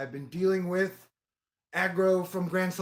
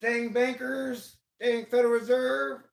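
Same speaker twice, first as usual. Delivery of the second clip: mock punching up; 4 semitones higher, 4 dB louder, slower than usual. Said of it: "I try and punch up like".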